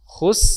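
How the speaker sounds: Khus with a thin light s; thin sin first. Shown as a demonstration. Teacher breaking down khusr step by step. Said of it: "tipis dulu".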